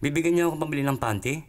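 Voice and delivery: high, eager questioning; acted-out hopeful mother; delighted mother. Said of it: "tuwang-tuwa yung, ano, yung nanay".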